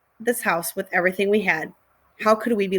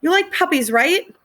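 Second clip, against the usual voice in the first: put-on pleading girl; 9 semitones higher, 4 dB louder than usual. Crying girl begging a stranger.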